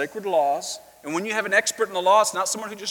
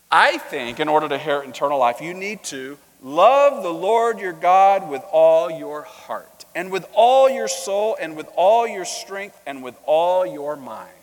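mild prideful recital; 7 dB louder than usual. Retold or imitated. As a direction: recite it like a star pupil showing off. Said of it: "saying this with a little bit of pride".

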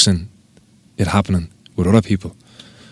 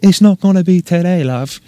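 higher, put-on voice of the judge; mock judge voice; 9 semitones higher than usual. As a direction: hand down the verdict in a put-on voice. Voicing the judge's verdict.

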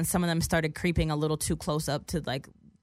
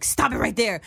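higher, mock stern command; retold bodyguard order; 5 semitones higher, 4 dB louder than usual. Bodyguard puts hand across her chest, sternly halting her. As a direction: imitate a guard halting someone.

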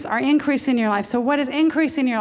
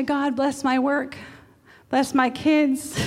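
slow, drawn-out, half-hearted prayer; mock vague prayer; 3 semitones higher, slower than usual. Preacher mocking a vague prayer, slow and drawn out. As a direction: drone it out like a lazy prayer. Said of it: "Sometimes we just say".

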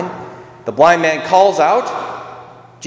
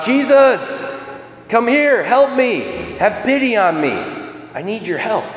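high, pleading call from the roadside; 10 semitones higher than usual. Retold or imitated. Blind beggar calls out to Jesus from the roadside, high and pleading. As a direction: beg for help in a raised, high voice. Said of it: "Bartimaeus who called out".

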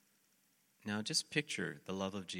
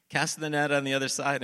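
high, very loud shouted instruction; yelled call; 7 semitones higher, 11 dB louder than usual. Retold or imitated. Jesus repeats his order to the fishermen, yelled call. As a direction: holler it across the water. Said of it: "Jesus yells out at them".

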